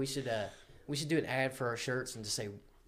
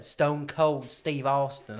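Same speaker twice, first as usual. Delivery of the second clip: mimicking own announcer voice; 2 semitones higher, 6 dB louder, much slower than usual. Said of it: "I was talking like this the whole time".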